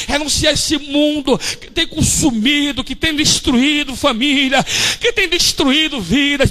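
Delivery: loud, driving sermon rebuke; preaching at full force. Real, not acted. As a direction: rebuke the spirits with fervour. (pregação inflamada)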